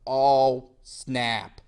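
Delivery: a hammed-up panic; mock panicked tsarina. Tsarina reading the curse, loud hammed-up panic. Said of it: "she's all like".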